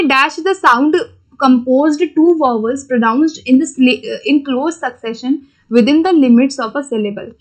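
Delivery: reading the exam question out word by word, very slowly. Shown as a demonstration. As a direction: dictate it slowly like an exam paper. Reads exam question aloud slowly. (परीक्षा का प्रश्न बहुत धीरे-धीरे पढ़ना)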